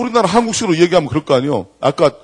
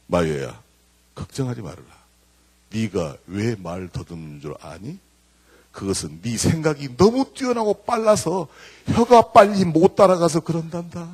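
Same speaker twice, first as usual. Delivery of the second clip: reassuring mother. Retold or imitated. Paul Meyer's mother consoling her stuttering son, slow and tender. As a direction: soothe a frightened child gently.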